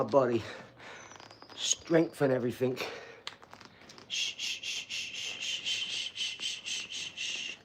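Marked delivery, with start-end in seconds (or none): 4.1-7.6 soothing shushing. Real, not acted. Soothing a baby.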